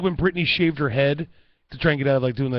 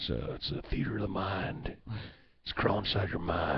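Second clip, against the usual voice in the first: put-on Native American accent; 5 semitones lower, 9 dB quieter than usual. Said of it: "this is my Native American, uh, voice".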